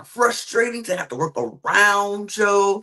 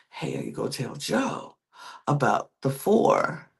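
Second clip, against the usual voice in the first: retold whisper; 3 semitones lower, 5 dB quieter than usual. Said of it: "Savannah whispers to Rick".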